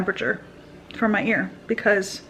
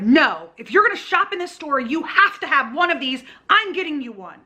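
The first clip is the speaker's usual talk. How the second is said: higher-pitched, insistent mock yell; retold yelling; 7 semitones higher than usual. Store man yelling at customer before a crowd, mock yell. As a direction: imitate someone yelling orders, pitch pushed up. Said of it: "Like, yelling at me with".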